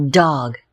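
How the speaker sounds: dog with a clear final D sound; D sound demo. Shown as a demonstration. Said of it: "make the sound D, as in".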